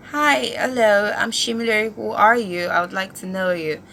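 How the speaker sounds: lightly imitated British accent; British spicy manner. Ten-year-old greets a new classmate, imitated British accent. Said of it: "I spoke in a British spicy manner".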